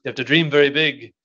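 imitating a Spanish priest's accent. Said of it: "he said it in a great Spanish accent".

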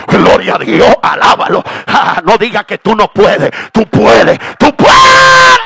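shouted exhortation climbing to a long scream; roaring pulpit climax, last word stretched high; full-force preaching. Real, not acted. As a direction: rouse the congregation at the top of your lungs.

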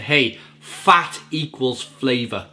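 slow, imitated American delivery; American accent. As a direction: quote an American slowly, savouring each word. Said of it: "in his American accent".

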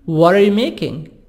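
WHAT ARE linked as 'whadda'; American flapped T in 'what are you making'; soft D T. Shown as a demonstration. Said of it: "What a T soft D".

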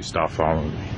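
low, soft, deliberately polite warning; asking nicely. Real, not acted. To the employee following him, a low soft polite warning. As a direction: hold the anger down and ask it low and soft. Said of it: "I'm gonna ask you nicely".

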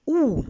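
teacher intoning У; intoned U. Shown as a demonstration. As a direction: intone the vowel U, drawn out. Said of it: "інтонуючи звук".

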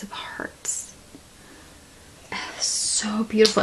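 hushed whisper of wonder; awed whisper. Real, not acted. Admiring handmade heart tiles, awed whisper. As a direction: breathe the words softly in awe.

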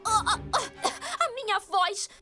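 slow pained whimper. Acted. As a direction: whimper over the lost voice. Throat burning from spice.

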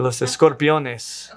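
slow Spanish accent on the Latin names. Shown as a demonstration. Narrator who can't read Latin otherwise, Spanish accent. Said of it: "in anything but a Spanish accent".

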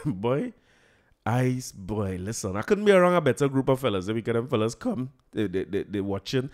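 normal talking voice

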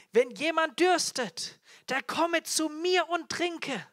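slow, high, loud proclamation; crying out. Acted. Jesus interrupts the solemn feast, crying out slowly. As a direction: call it out slowly to the whole crowd. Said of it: "rief und sprach".

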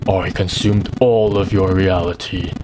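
slow, menacing undead villain; lich voice. Acted. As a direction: read as a cold ancient lich. Reads the lich's lines in voice.

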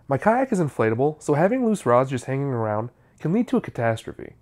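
measured tutorial narration with falling phrase endings; scripted how-to voiceover. Real, not acted. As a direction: read it as a tidy DIY video voiceover. Scripted voiceover after casual intro.

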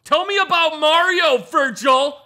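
high, loud and simple-minded; dim-witted brute. Acted. Dim companion pestering Virgil about Mario, loud and oafish. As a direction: blurt it like an eager oaf.

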